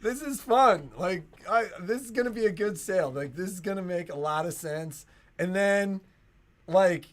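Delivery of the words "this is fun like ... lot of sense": thrilled at the start of the ride; giddy coaster rider. Pretend. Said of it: "you're like".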